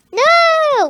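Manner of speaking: high, loud mock protest; outraged shout. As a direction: yell it like an outraged friend.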